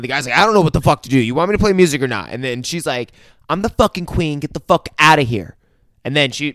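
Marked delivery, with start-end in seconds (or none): 0.4-2.3 mildly exasperated, higher and quick; exasperated musician. Retold or imitated. Musician caught between bickering women, exasperated. 3.5-5.6 mock indignant, pitched up; imperious queen. Queen ordering the musician away, mock imperious. Queen pulls rank in retold quarrel.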